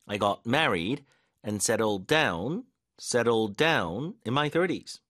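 slow beats on "married", "down" and "thirties"; stress drill. Shown as a demonstration. Teacher repeating the sentence so learners feel the force, key words stressed. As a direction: lean on "settled down", pausing between phrases. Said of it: "힘 어디 넣어야 되는지 느껴지시죠".

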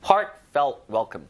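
"heartfelt welcome" drawn out very slowly; slow model reading. Shown as a demonstration. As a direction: spell it out slowly for the class. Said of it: "welcome에다 많이 붙입니다". (아주 천천히 또박또박 시범 읽기)

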